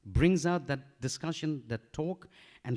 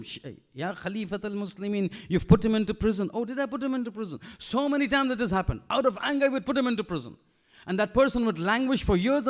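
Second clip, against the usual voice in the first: acted caliph dialogue; 8 semitones higher, 6 dB louder than usual. Acted exchange with forgetful caliph.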